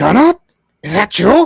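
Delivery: put-on high, loud, croaking old dwarf voice. A storyteller voices a blind old dwarf asking if it's gunnar, croaking old dwarf voice. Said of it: "he croaks out a".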